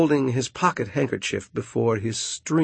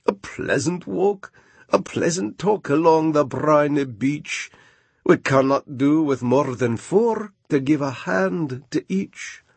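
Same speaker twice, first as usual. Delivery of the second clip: raised, sweet-talking walrus voice; coaxing walrus; 4 semitones higher than usual. Acted. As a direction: lure them in pleasantly. Walrus coaxes oysters.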